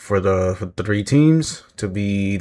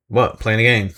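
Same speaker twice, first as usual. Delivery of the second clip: calm Finn. Retold or imitated. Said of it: "he was just so calm about it".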